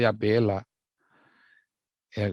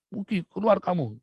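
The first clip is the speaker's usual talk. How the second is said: higher-pitched mock angry order; retold angry outburst; 7 semitones higher than usual. Father throwing his son out of the house, imitated anger. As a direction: imitate an enraged father, not fully shouted. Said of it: "Lagi ngamuk".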